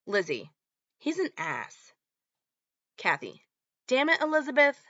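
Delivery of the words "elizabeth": ordinary talk, nothing marked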